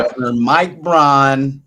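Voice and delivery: high, loud, slow grand announcement; dramatic announcer. Acted. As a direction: announce the name like a big title. Mock-grand naming of governor.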